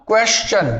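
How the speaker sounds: क्वेश्चन as KWESH-chun; correct question. Shown as a demonstration. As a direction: say क्वेश्चन with sh then ch. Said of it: "सही उच्चारण क्या होगा". (क्वेश्चन, सही उच्चारण "क्वेश-चन")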